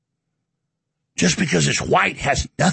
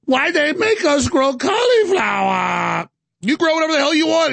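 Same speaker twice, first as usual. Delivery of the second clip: put-on caricatured Chinese accent, higher in pitch; mock Chinese accent; 7 semitones higher than usual. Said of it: "Now I'm doing a Chinese accent".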